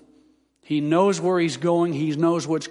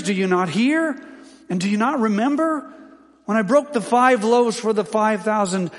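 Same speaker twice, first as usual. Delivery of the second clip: mild exasperated rebuke, pitched higher; barrage of questions; 4 semitones higher than usual. Acted. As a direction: press question after question, frustrated. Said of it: "Jesus unleashes a barrage of questions".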